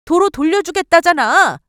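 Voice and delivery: high, loud mocking retort; scornful jab. Wife taunting mother-in-law, loud and scornful. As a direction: throw it back in her face.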